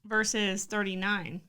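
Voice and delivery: talking around ice in mouth; words around a mouthful of ice; mouth full. Real, not acted. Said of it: "I have ice in my mouth".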